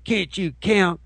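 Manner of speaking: mock scolding shopper in line; mock sneering shopper. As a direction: sneer at the overfull cart. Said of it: "looking at you like".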